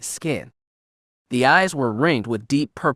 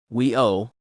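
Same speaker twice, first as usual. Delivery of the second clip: lightly spat out; a touch of contempt. A narrator's reading. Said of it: "Kira spat".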